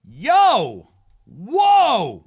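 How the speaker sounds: loud, high shout to a friend; hollering at Buzz about his girlfriend, high and loud; mock holler. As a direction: yell out like spotting someone across the room.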